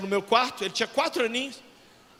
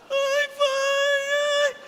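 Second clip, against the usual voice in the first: put-on high whimpering child's voice; crying small boy; 14 semitones higher, much slower than usual. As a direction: whine like a frightened four-year-old. Little son cries at statue.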